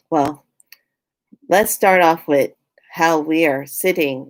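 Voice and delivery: mock robotic politician address; stilted, halting official reeling off figures; Governor Newsom. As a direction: talk like an AI reading numbers, lightly exaggerated. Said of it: "here's Governor Newsom".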